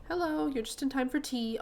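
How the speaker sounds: put-on British accent. Miss Holdsworth greets a visitor for tea, British accent. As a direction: welcome a guest in a British accent. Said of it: "I gave her a British accent".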